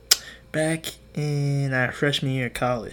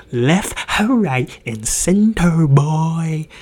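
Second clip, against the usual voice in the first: emphatic boast; 4 semitones higher, 10 dB louder, much slower than usual. Real, not acted. Bragging about friend's many rejections.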